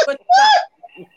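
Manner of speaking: shrill squealing shout; high-pitched yell. Real, not acted. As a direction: crank it way up high. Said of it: "See, it just went up".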